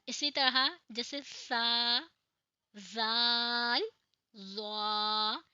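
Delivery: सा, जाल, ज़ा slow with tongue between teeth; soft tongue-tip letters. Shown as a demonstration. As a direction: demo of the soft interdental letters. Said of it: "इन तीनों का मखरज एक है".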